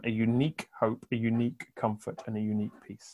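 quiet, reverent echo of the triad. Shown as a demonstration. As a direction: let the triad sink to almost nothing. Triad repeated, fading quieter.

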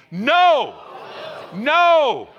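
high, loud No for all to repeat; shouted call-and-response. Shown as a demonstration. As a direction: belt it out, rallying the room. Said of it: "Here, say this with me".

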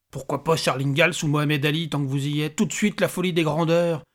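mock the grand suggestion; mildly indignant little man; exasperated little stranger.

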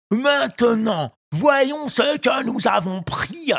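high, slow, loud ogre fisherman; a greedy brute gloating over the net. A narrator's reading. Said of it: "dit le pêcheur". (voix d'ogre gourmand, lente et forte)

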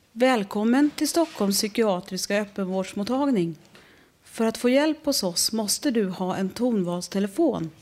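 lightly voiced recorded phone menu. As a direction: read it like a flat automated line. Imitates psychiatry phone menu. (lätt spelad telefonsvarare)

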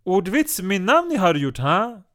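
mock Turkish-accented Yoda grammar, voice lifted high and loud; imitating Gokan. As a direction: parody his accent like a Turkish Yoda, pushed up and punchy. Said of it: "du behöver inte imitera mig".

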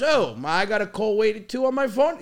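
dad voice. Retold or imitated. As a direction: discover call waiting with wonder. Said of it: "He goes".

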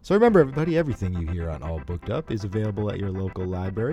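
lightly voiced announcer read; a hint of a hard sell ad; commercial voice. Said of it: "That voice that you put on".

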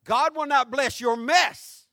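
"God will not bless your mess" loud and slow, rising on "not"; preached emphasis. Acted. Pastor repeating the key line to the church, loud and slow. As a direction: proclaim it to the back row.

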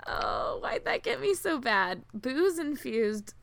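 talking with a swollen tongue; words thick round a swollen tongue. Real, not acted. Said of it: "that's why I kinda sound like an idiot".

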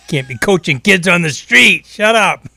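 high, loud, laughing self-scold. Real, not acted. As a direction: laugh at your own foolishness.

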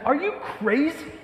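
high, slow, put-on voice of an exasperated homeowner; mock outraged Jesus. Preacher imagines Jesus scolding the men who broke his roof, high and slow. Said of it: "He could have said".

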